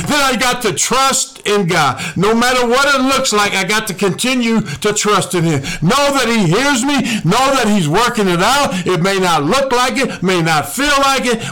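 lifted, insistent preacher's exhortation; impassioned preaching. Real, not acted. Preacher urging trust when prayers seem unanswered, impassioned. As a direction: urge the congregation on in rising pulpit cadence.

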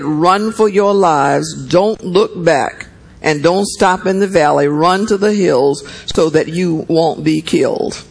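steady, measured Bible reading; scripture reading. A narrator's reading. Preacher reading Genesis to the church, measured. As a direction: read the passage to the congregation.

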